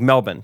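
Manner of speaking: "Melbourne" said MEL-bun, R dropped. Retold or imitated. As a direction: drop the R in "Melbourne", short "bun" ending. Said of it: "just no R".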